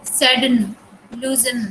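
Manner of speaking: सडन and लूजन ending on a syllabic n; very light final vowel. Shown as a demonstration. Teacher giving syllabic consonant examples, सडन and लूजन with reduced second vowels. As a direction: barely sound the last vowel of सडन and लूजन. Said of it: "बिल्कुल हल्की सी sound आती है".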